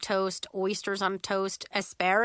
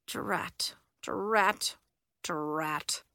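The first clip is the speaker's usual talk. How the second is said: muttered frustration; 2 semitones lower, much slower than usual. A narrator's reading. Muttered curse after being refused.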